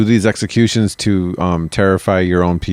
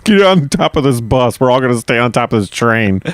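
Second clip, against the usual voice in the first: put-on higher-pitched comic Indian accent; 3 semitones higher than usual. Traveler urging friends onto the bus roof, mock Indian accent. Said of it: "That's my Indian accent".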